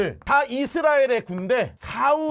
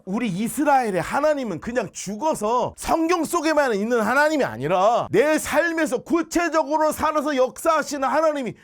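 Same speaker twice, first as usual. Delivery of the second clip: fervent preaching; 3 semitones higher, 4 dB louder than usual. Real, not acted. Preaching climax to the congregation.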